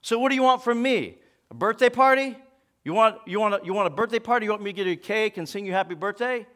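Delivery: nasty, mocking tone; venomous. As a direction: sneer it with contempt. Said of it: "responded in a very nasty tone".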